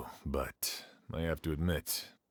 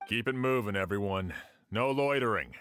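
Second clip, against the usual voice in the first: raised, higher voice ordering the crowd along; calling out; 4 semitones higher than usual. Acted. Guard telling loiterers to move along, calling out. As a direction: project it over a crowd, brisk and firm.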